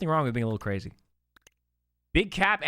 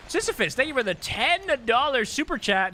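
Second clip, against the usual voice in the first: "thank you for the ten dollar super chat" pitched high and louder in a cartoon mom voice; Marge impression; 10 semitones higher, 4 dB louder than usual. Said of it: "How was that, guys?".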